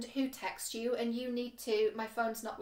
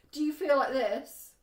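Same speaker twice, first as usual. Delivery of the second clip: bright, louder playful question, showing a great friendship; happy excited; 3 semitones higher, 7 dB louder than usual. Shown as a demonstration. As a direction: cheerfully act out feeling great. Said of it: "I'm being a bit silly".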